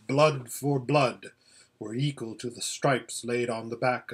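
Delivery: lightly voiced grave lion, often low; Aslan, stern and solemn. Lion explains the girl's wounds, stern and solemn. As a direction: pronounce it like a measured judgement.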